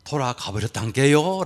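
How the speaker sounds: lightly imitated slow Jeolla accent; a teller's Jeolla imitation; Jeolla dialect. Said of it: "전라도 사람들은".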